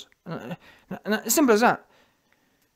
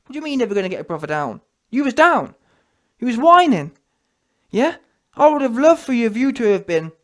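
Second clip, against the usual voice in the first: ordinary talk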